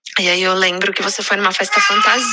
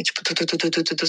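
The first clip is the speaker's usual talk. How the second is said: soft tu tu tu like a racing heartbeat; imitated heartbeat; 3 semitones lower, 6 dB quieter than usual. Telling her sister how her heart raced, soft heartbeat sounds. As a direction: tap out a heartbeat with your voice, quietly. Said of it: "O barulho do coração".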